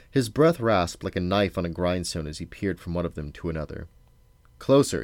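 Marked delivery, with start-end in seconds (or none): 4.6-5.0 grumbled. A narrator's reading. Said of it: "he grumbled".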